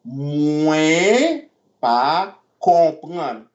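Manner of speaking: Mwen pa konprann dragged out very slowly. Shown as a demonstration. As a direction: stretch every word for the learner.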